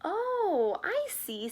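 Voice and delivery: a touch of kindness, softening; understanding rabbit eases off; kindly. Acted. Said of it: "said the rabbit kindly".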